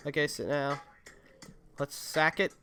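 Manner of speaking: ordinary delivery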